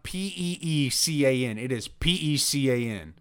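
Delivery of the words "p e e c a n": letter-by-letter "P E E C A N"; spelling out the wrong version; spelled out. Shown as a demonstration. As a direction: spell "P E E C A N" with the doubled E. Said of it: "It is not".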